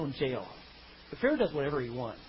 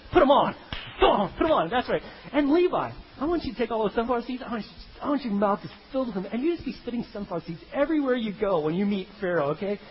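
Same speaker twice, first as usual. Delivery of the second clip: coaching the brothers; 4 semitones higher than usual. Retold or imitated. Joseph coaches Reuben and Levi to look bad, hammed-up higher bossy voice. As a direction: egg them on like a sly big brother. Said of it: "He said, like".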